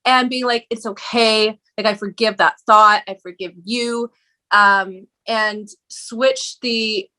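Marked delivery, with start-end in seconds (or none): 0.7-4.1 gently forgive your inner critic; mildly soothing self-talk; loving reassurance. Retold or imitated. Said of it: "I started loving on Regina".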